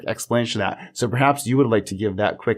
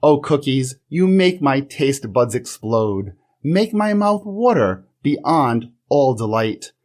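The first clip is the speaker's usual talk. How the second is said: slow, hammed-up dramatic sonnet recital; poem reading. Reading his own mock sonnet to the class teacher, slow and grandiose. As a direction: read it as an overwrought ode to cookies. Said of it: "you should hear it live here on the show".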